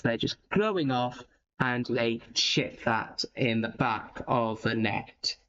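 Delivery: low, measured play-by-play; goal commentary. Real, not acted. Host describing the Seasiders' goal to listeners, low-key commentary.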